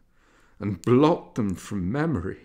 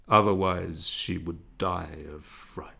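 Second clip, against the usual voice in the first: hushed devil; 3 semitones lower than usual. Acted.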